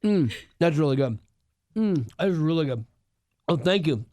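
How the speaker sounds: talking while licking fingers; words around sticky fingers. Real, not acted. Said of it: "I'm licking my fingers".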